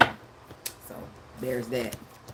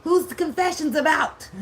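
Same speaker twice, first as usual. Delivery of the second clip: much higher, rising frantic questions; frantic curiosity; 9 semitones higher than usual. Retold or imitated. Herself listening to Confessions, frantic high gossipy questions. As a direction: pile on the questions in gossipy panic. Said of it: "the whole time I was like".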